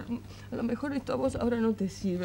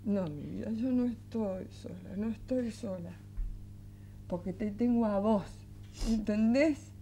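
gentle reassurance; 4 dB quieter than usual. Acted. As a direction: reassure a child quietly. Mother reassures her worried son.

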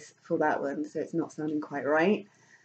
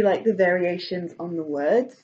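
ordinary talk, nothing marked

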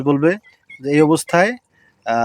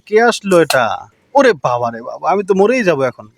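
mock fear. Father pretends to fear gun.

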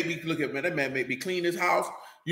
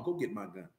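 mock mama threat; 9 semitones lower, 14 dB quieter than usual. Mama voiced in the story.

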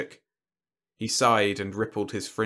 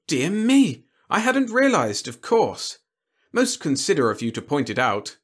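higher, lilting alien host; courteous alien warlord; 6 semitones higher, 4 dB louder than usual. A narrator's reading. Alien host chatting with his opponent over refreshments, courteous and lilting. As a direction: play a genteel alien sportsman.

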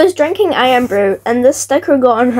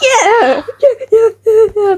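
excited cheering; 10 semitones higher, 3 dB louder, slower than usual. Real, not acted. Cheering on swing.

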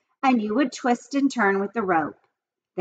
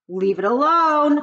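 high, louder order; commanding; 6 semitones higher, 4 dB louder than usual. A narrator's reading. Fern commanding Avery to leave the spider, high and louder. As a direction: snap a warning. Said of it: "commanded Fern".

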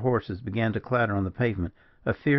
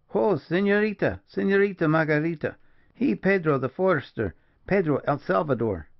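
hallooing; 7 semitones higher than usual. A narrator's reading. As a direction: call out through the house to wake her. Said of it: "hallooing within to arouse his mistress".

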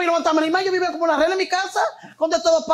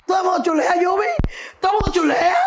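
louder, higher, laughing exclamation; laughing exclaim; 4 semitones higher, 5 dB louder, faster than usual. Real, not acted. Telling the host everyone flirts, loud laughing exclaim. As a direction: call it out with a laugh.

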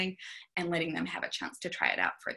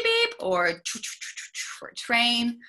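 transport noises; 4 semitones higher than usual. Shown as a demonstration. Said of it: "things like".

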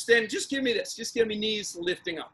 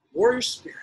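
whispered; 3 semitones higher than usual. Real, not acted. Cool down, quiet encouragement.

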